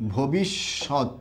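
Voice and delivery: ভবিষ্যৎ stretched very slowly, falling at the end; slow spelled-out word. Shown as a demonstration. Teacher reading a student's example slowly to the class. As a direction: sound out ভবিষ্যৎ syllable by syllable. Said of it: "একজন একটা example লিখছে".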